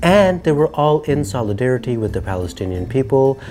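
emphatic, measured presenter delivery; scripted commentary, falling away at phrase ends; show presenter read. Acted. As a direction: deliver the year-in-review script with punchy openings. Presents a scripted year review.

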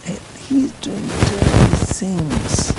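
loud, slow, pitched high, leaning on each word; stern outcry. Acted. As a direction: cry out the accusation to the congregation. Preacher condemns sinner.

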